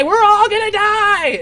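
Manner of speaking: high, loud, stretched-out terrified wail. Acted. Pingo wailing again as the crash nears. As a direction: drag it out in rising dread. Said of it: "he starts to panic and he shouts".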